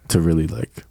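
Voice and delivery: deep voice. Shown as a demonstration. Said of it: "I'm gonna make my voice, like, way deeper".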